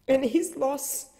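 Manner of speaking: struggling through tears; holding back tears. Real, not acted. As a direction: voice catching with grief. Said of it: "I'm sorry, I'm crying".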